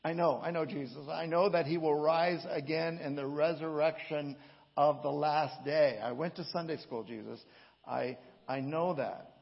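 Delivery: loud, eager, insistent protest; Martha's insistent voice. Acted. Martha tells Jesus she already knows, loud and insistent. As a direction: press it on him like a know-it-all pupil. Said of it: "read this with inflection that is my inflection".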